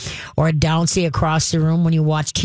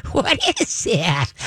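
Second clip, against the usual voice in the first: curious; slower than usual. Shown as a demonstration. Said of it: "curious tone to engage dog".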